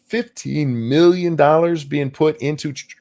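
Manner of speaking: speaking through hiccups; hiccuping. Real, not acted. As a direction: hiccup breaks the words. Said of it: "I'm hiccuping".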